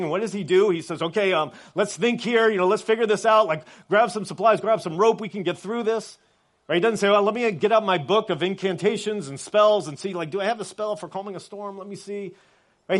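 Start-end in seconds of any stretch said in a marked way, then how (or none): 1.0-6.2 higher-pitched hurried problem-solver act; mock improvising. Imagined Jesus improvising a rescue plan. 7.1-12.3 mock searching. Mock wizard hunting for a spell.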